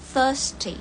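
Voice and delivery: thirsty said "thəsti", th not a T; right pronunciation. Shown as a demonstration.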